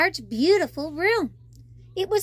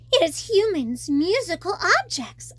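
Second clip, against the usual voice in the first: excited; 3 semitones higher than usual. Acted. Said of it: "I said excitedly".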